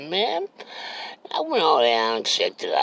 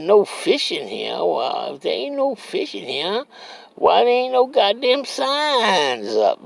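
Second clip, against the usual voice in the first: indignant retort; 12 semitones higher than usual. Retold or imitated. Arguing with the property owner.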